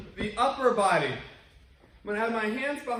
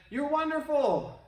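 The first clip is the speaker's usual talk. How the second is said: slow happy call; 8 semitones higher, slower than usual. Retold or imitated. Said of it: "They shouted".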